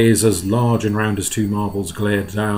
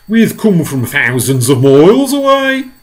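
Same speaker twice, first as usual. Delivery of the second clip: slow, loud, higher creature voice; shouting back; 6 semitones higher, 9 dB louder than usual. Acted. Centipede answering the police chief, drawn-out shout back. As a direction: call the answer back, stretched out. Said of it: "the centipede shouted back".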